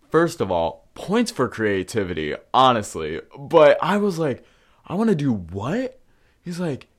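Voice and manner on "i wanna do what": high, loud shocked question; disbelieving outburst; retold disbelief. Reacting to the friend's rumor, high shocked disbelief.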